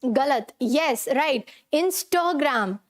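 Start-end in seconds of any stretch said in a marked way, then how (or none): 1.7-2.8 "Instagram" slowly as in-stho-gram; corrected pronunciation. Shown as a demonstration. Teacher drills her class, "Instagram" said slowly as in-stho-gram. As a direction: round the middle A of "Instagram" into a short O. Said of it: "थ है".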